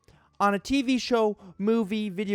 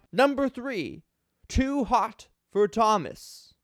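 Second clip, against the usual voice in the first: dramatic reading. Acted. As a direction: grandly read review voice, mock-serious. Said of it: "a dramatic reading of this guy's review".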